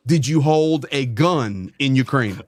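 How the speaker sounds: slow, deliberate questioning; deliberate repeat. Real, not acted. Host repeating question after guest says sorry, slow and deliberate. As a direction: spell the question out slowly, pressing for an answer.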